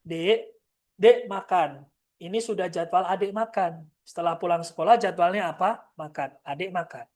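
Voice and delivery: put-on plain step-by-step instruction to a child; logical and firm. Shown as a demonstration. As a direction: explain it like a schedule. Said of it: "bahasa kayak komputer".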